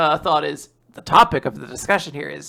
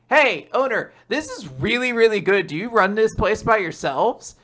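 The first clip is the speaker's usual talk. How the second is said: cheery customer; 4 semitones higher than usual. Acted. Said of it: "Souffle is like".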